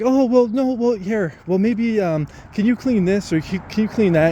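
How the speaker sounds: high-pitched, hedging supervisor voice; imitating condescending supervisor. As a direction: search for a small chore to hand over. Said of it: "what it feels like to be condescended to".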